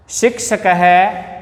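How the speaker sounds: शिक्षक है read slowly with a rise on है; slow dictation. Shown as a demonstration. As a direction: model it slowly for pupils. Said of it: "उच्चारणम कुरत".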